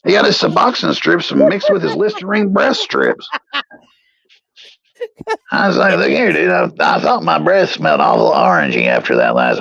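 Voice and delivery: a hillbilly character explaining his mix-up. Acted. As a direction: tell it like the confused victim. Character narrating in voice.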